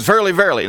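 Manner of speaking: "Verily, verily" punched high and loud; intensified repetition. Retold or imitated. Preacher quoting Jesus to the class, intensified repetition. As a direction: drive both words of "Verily, verily" up in pitch and volume. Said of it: "repetition is meant to intensify".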